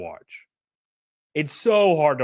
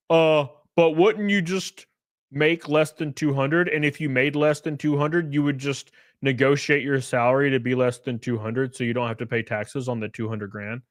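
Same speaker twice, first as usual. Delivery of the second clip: clueless adult; 3 semitones lower than usual. Retold or imitated. Mocking adults who misunderstand taxes, lightly voiced clueless adult. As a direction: lightly imitate a clueless commenter, level and low. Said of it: "I see full-grown adults".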